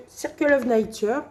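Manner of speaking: English title with a French speaker's English accent; self-mocked English accent. Shown as a demonstration. Vlogger names her chosen colouring book, joking English accent. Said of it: "avec mon super accent anglais".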